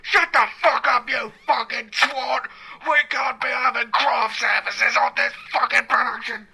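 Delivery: mock furious rant; hammed-up ranting boss; angry producer rant.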